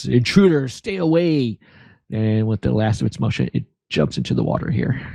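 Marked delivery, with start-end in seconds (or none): 0.0-1.6 high, loud monster-voiced shout. Game master narrating as the creature warns the party away, creature shouting. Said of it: "the creature shouts".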